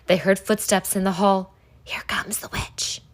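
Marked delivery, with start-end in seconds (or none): 1.8-3.0 frightened hushed whisper. Acted. Kids whispering as footsteps approach, hushed whisper. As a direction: breathe it out so the witch won't hear. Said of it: "they whispered".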